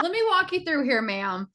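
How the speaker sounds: loud, quick teasing talk-through with laughter; amused, exasperated coaching; laughing mock lecture. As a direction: laugh while playfully scolding a client. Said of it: "I'm saying it and I'm laughing".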